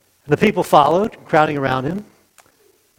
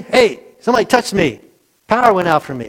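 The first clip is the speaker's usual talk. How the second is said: angry; 4 semitones higher than usual. Shown as a demonstration. Preacher demos Jesus asking angrily who touched him. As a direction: act out an irritated Jesus snapping at the crowd. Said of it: "Did he say it angrily?".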